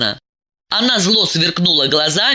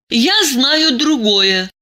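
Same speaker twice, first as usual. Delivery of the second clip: coldly; 8 semitones higher, much slower than usual. A narrator's reading. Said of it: "холодно ответила она".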